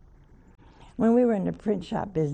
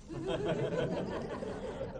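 airy high chuckle; high laugh; 14 semitones higher, 9 dB quieter than usual. Real, not acted. Nun recalling her mother, laughing.

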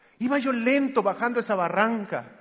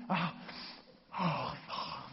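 exaggerated gasp; 3 semitones lower, 12 dB quieter, much slower than usual. Shown as a demonstration. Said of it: "Así, ¿verdad? Es exagerado".

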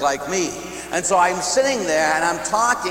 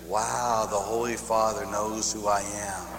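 awed; 7 semitones lower, 7 dB quieter, slower than usual. Retold or imitated. Listener's awed inner thought.

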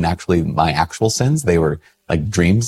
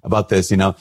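high-pitched mock scolding lady; scolding church lady; 6 semitones higher than usual. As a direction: mimic a shocked old church lady, pitched way up. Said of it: "she'd be like".

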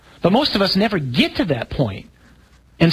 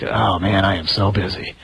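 mock busy priest; 8 semitones lower than usual. Priests boasting how busy they are.

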